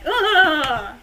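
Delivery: drawn-out "ugh"; mock-annoyed groan; exasperated groan. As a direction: groan in playful frustration. Mock groan about friend's rant.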